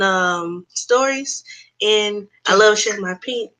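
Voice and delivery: measured, deliberately toned-down introduction; sweet, calm voice. Real, not acted. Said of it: "I don't know what that voice was. She, she is not that sweet".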